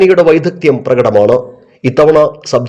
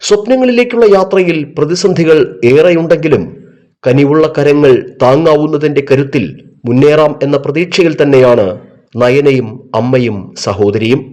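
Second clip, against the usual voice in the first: news feature narration. A narrator's reading.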